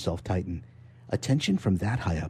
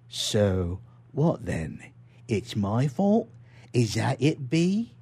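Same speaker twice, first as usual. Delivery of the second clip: dangerously calm; much slower than usual. Acted. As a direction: let each question hang, calm but threatening. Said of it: "The voice was dangerously calm".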